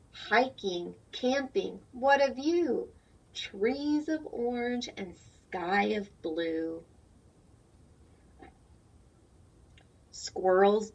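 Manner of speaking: slow, sing-song rhyming read-aloud; reading to children. A narrator's reading. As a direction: read the rhyme slowly for little ones. Reads picture book aloud.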